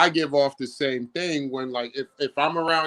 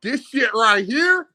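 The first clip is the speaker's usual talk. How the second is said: slower and higher street voice; hood voice, drawn-out; 6 semitones higher, 4 dB louder, slower than usual. Pretend. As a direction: stretch it out, hyped. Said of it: "my hood voice".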